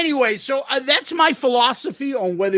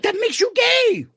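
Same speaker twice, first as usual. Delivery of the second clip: mock outrage; 13 semitones higher than usual. Retold line, pitch jumps.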